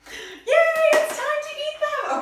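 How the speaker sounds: high, loud happy cheer; excited cheer. Real, not acted. Cheering at the treats.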